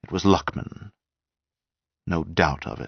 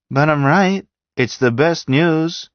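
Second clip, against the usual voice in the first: much higher and louder, pleased with himself; eager insistence; 11 semitones higher, 6 dB louder than usual. A narrator's reading. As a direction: push back, flushed and delighted. Angst blushing, insisting gleefully.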